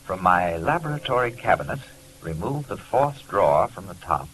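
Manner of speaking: letter read aloud. Acted. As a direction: read it like a desperate plea from a friend.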